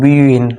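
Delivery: বিউইন said as "bi-win", b then a glide into win; bi-win variant. Shown as a demonstration. Teacher showing another variant of waw, bi-win. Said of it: "কেউ বলে".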